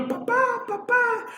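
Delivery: lightly voiced little girl asking for mama; a child plaintively calling for a parent; small child's plea. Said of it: "la pequeña lo ama, y".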